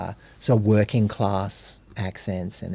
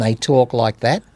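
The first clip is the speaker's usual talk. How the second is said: lowered-palate Queenslander accent. Shown as a demonstration. Explaining how Queenslanders talk, demonstrated Queenslander accent. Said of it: "they lower the palate".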